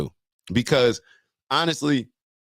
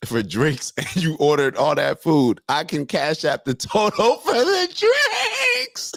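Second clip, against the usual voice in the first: laughing while reading; 3 semitones higher, slower than usual. Real, not acted. Reads comment while laughing.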